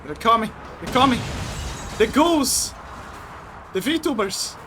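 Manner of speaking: high alarmed warning; panicked, they're closing in; yelling while running away. Real, not acted. Enemies chasing, alarm.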